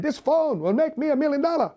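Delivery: high-pitched imitation of a Vietnamese accent. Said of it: "I did it in his accent".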